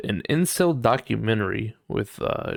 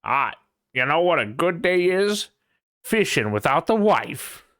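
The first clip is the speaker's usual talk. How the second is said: boomer impression; 7 semitones higher than usual. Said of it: "the boomers with how they're like".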